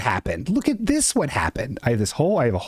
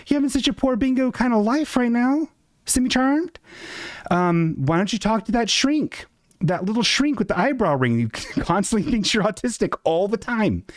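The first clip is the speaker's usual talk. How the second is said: voiced high and sing-song as chat; high mock chat voice; 10 semitones higher than usual. Chat member teasing the streamer, high sing-song mock voice. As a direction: pitch it way up, teasing. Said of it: "You're like".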